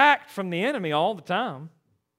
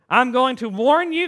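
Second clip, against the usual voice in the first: stern caller; 3 semitones higher, 4 dB louder than usual. Retold or imitated.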